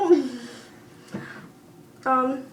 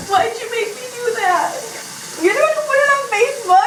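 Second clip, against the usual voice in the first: throat burning; 10 semitones higher, 6 dB louder than usual. Real, not acted. Strained protest after cinnamon.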